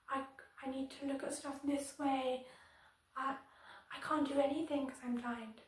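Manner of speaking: lightly acted mocking of a blind person; a touch of mock-helpless teasing; mocking bully. Imitating a bully teasing a blind classmate, lightly mocking. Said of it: "to mock that person and be like".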